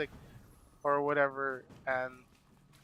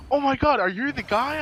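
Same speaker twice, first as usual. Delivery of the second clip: mock squeal, much higher and louder; excited recognition; 11 semitones higher, 9 dB louder than usual. Kara realizes she's met the earring maker, squealing excitedly. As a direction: imitate her thrilled recognition. Celebrity recognizes fan, retold.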